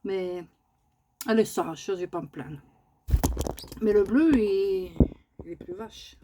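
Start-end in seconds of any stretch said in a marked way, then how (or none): 5.4-6.2 breathy whispered aside about the bird; hushed confiding whisper. Real, not acted.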